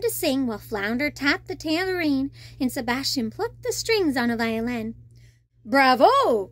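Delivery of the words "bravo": louder delighted cheer; cried bravo. Acted. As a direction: call out bravo with glee. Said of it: "cried the shark".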